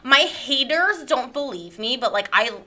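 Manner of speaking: lightly hammed-up wounded complainer; self-pitying guest character. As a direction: play a put-upon guest fishing for sympathy. Character defends herself to haters.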